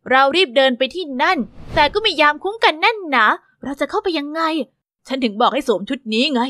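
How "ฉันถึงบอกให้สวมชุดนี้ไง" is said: a hint of a firm bodyguard; young guard Arthur. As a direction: urge the girl along. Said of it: "อาเธอร์".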